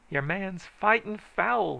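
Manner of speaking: high, loud and slow squall of protest; high drawn-out squall; squalling complaint. A narrator's reading. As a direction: squall it out like a sore loser. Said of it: "he squalled".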